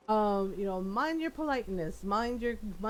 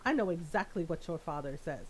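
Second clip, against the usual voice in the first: stern mom tone; 5 semitones lower, 4 dB quieter than usual. Retold or imitated. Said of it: "his mom got a tone".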